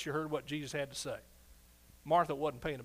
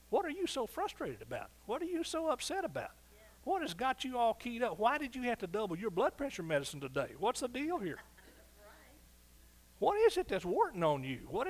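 pressing questions; 6 semitones higher than usual. Acted. Preacher questioning worried listener.

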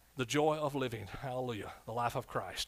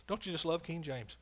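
usual speaking voice

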